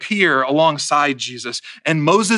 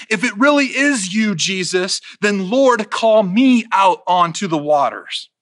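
cocky call; 3 semitones higher than usual. Acted. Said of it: "he yells out to Jesus".

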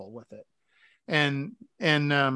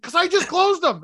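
much higher mock wife voice; imitating the wife; 11 semitones higher, 4 dB louder than usual. Husband mimics his wife explaining she'd just shut the cabinets, in a high voice. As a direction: squeak it as the wife. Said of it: "I was like".

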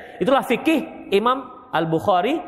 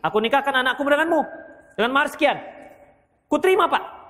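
quick mock vow exchange; 5 semitones higher, faster than usual. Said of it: "ada yang mengatakan begini".

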